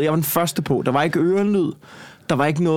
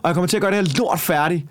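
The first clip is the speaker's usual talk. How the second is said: higher-pitched defiant rant; retold rage; 4 semitones higher than usual. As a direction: push through it, indignant. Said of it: "Og så skred jeg i raseri".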